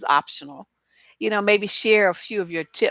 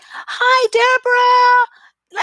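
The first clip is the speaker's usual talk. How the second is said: much higher, louder, drawn-out sweet greeting; sugary fake-friendly caller; 8 dB louder, much slower than usual. Caller phones back the next day, mock sugary greeting. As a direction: stretch the name like you're best buds. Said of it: "She was like".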